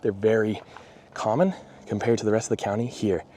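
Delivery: winded, talking between breaths; short of breath from walking in heat. Real, not acted. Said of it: "Sorry, I'm a little bit out of breath".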